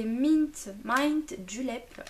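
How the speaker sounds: English words with a French accent; accent français en anglais. Real, not acted. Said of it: "désolée pour, euh, pour mon accent". (anglais prononcé avec l'accent français)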